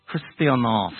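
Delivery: "Christianos" carefully said, with a held final OS; Greek pronunciation. Shown as a demonstration. Preacher showing the Greek for the congregation, "Christianos" in Greek pronunciation. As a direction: say "Christianos" deliberately as a Greek word. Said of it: "in Greek you would get".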